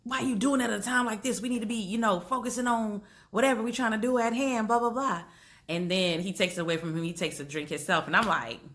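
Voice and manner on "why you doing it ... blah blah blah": Tick scolding. Retold or imitated. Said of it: "Tick walks in on him and was like".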